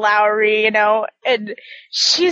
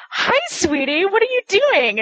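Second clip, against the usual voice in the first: higher-pitched, doting retold greeting; sweet coaxing greeting; 8 semitones higher than usual. Teller greeting Alma in her doorway, sweetly coaxing. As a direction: coo it as if to a dear one.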